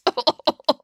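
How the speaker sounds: high drawn-out emotional outburst; overcome wail. Acted. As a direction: let out a hammed-up high cry. Boris overcome by cuteness.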